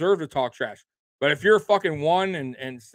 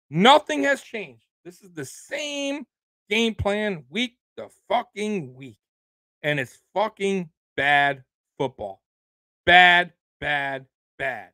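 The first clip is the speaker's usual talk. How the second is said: real frustration, words stretched; exasperated slow rant; 2 semitones higher, slower than usual. Real, not acted. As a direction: spell out your disgust slowly. Fan ranting about the team.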